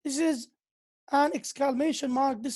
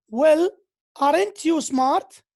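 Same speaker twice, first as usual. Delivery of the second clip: slow, loud mock praise; sarcastic reply, pushed louder; 2 semitones higher, 6 dB louder, slower than usual. Shown as a demonstration. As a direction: draw it out with sarcasm. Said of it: "Here it's a sarcastic".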